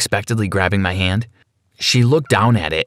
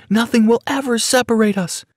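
high, far-off deranged shriek; unhinged scream; 12 semitones higher than usual. Acted. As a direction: shriek it like a madwoman.

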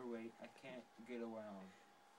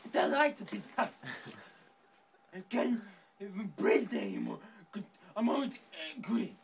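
angry rant; 2 semitones higher, 6 dB louder than usual. Acted. Character rants about being mocked.

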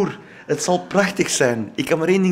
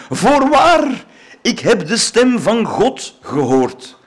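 much higher, louder, slowed hammed-up rapture; jubilant cry; 7 semitones higher, 5 dB louder, much slower than usual. A narrator's reading. Aunt rushing into the street, mock-ecstatic cry. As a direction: proclaim it like a converted believer. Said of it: "juichend, vol ontroering".

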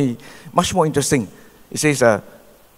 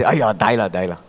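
lightly imitated resigned "Aiya, die lah", falling and fading; a hint of a gloomy Chinese moan, giving up; mock pessimistic sigh; 5 semitones lower than usual. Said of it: "Chinese say like".

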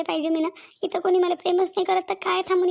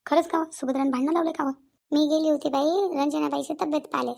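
gossiping village woman; 2 semitones lower than usual. Acted. Two village women gossiping.

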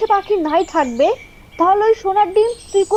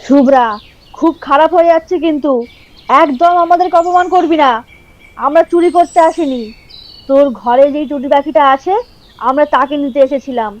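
angry quarrel; 3 semitones lower, 5 dB louder than usual. Acted. Quarrel, threatening Shubhra.

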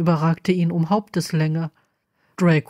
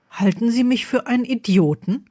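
sharp; 4 semitones higher than usual. Acted. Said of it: "fragte Selvin scharf".

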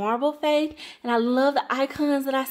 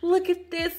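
higher, louder and fast; bursting with excitement; excited rush; 6 semitones higher, 5 dB louder than usual. Real, not acted. Excited about Southern Farmhouse.

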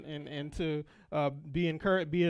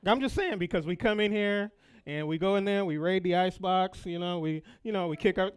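laughing; 3 semitones higher, 4 dB louder than usual. Real, not acted. Laughing confession to the congregation.

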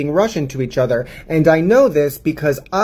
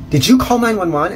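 angry mom; 7 semitones higher, 5 dB louder than usual. Retold or imitated. Angry mom confronting the child.

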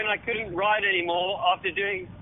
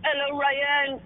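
mock French accent; 5 semitones higher, much slower than usual. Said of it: "posted on his bloody Instagram going".

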